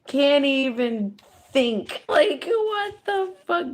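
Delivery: very high, loud, slow what the fuck; stunned disbelief. Retold or imitated. Reader voicing stunned onlookers, high and loud. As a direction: gasp it out in disbelief.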